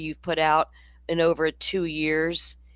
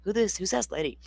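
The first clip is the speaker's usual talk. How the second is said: imagined rival YouTuber; 5 dB quieter than usual. Retold or imitated. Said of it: "He's probably going".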